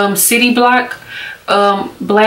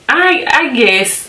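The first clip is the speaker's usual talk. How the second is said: hesitant consent; 4 semitones higher, much slower than usual. Retold or imitated. Acting out her hesitant answer to him.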